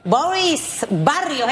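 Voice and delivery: "Boris Barrios" drawn out slowly and deliberately; slow, careful name announcement of "Boris Barrios"; careful pronunciation. Shown as a demonstration. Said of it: "que mantenga la pronunciación".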